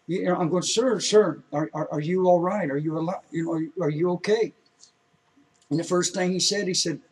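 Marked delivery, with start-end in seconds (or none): 0.6-4.5 anxious, louder shout of sir; urgent calling out. Retold or imitated. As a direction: call through the window, worried. Knocking on stranger's truck window.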